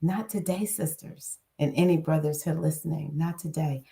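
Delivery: quiet, firm sassy no; defiant refusal. Retold or imitated. Refusing the world's negative spell, quiet and defiant. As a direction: turn the world down flatly. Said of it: "And I'm like".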